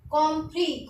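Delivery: कॉम्फ्री said with the s silent; कॉम्फ्री ending on a clear ee, no s; French word compris. Shown as a demonstration. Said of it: "तो इसको pronounce करेंगे कॉम्फ्री". (French उच्चारण में कॉम्फ्री, एस silent)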